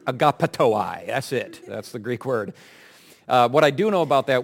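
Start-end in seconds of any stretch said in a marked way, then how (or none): 0.1-1.1 AGAPETOI said firmly and louder, falling at the end; mock-authoritative agapetoi, no hesitation; confident pronunciation. Shown as a demonstration. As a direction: say agapetoi with full assurance. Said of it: "Just say it confidently".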